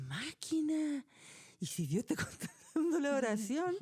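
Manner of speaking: hushed whisper to herself; whispered thought. Retold or imitated. Walking home, she whispers to herself in disbelief. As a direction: breathe it as a stunned aside.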